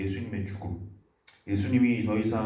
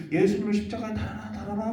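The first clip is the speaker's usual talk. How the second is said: mild mock crowd shout; 8 semitones higher than usual. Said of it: "막 외치기 시작하니까".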